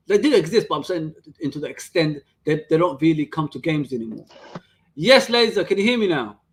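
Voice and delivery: breaking up on a bad connection; words dropping out, laggy stream; choppy cut off endings. Real, not acted. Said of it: "you keep cutting out".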